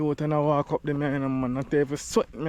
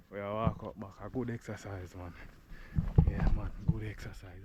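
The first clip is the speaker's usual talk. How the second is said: softer, winded words; out of breath; 4 semitones lower, 5 dB quieter than usual. Real, not acted. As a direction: talk while catching breath. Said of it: "if you catch my breath".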